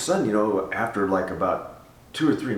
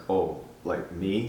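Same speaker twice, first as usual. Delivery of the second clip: slow, hesitant mock reluctance; self-conscious; slower than usual. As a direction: imitate someone shyly wondering if they're meant. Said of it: "everybody comes real self-conscious".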